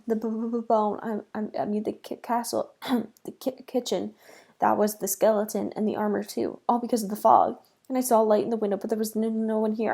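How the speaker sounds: stuttering, tripping over words; stammering panic. Acted. Scared brother stammering to his sister, loud panicky stutter. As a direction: babble in fright. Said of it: "I stammered".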